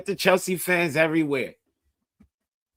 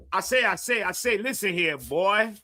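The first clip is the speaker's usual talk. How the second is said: lightly voiced blustery rooster, higher; Foghorn Leghorn; 6 semitones higher than usual. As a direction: loose Foghorn Leghorn impression. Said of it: "go watch some Fargo and Leghorn".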